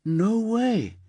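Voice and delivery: a high, scornful imitated no way; mock dismissive. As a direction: toss it off with contempt. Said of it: "and went".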